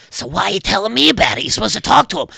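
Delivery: exasperated friend. Acted. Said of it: "the other one's like".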